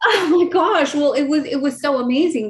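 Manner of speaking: high, laughing through happy tears; overwhelmed and giddy; emotional laugh. Real, not acted. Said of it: "You're gonna make me cry".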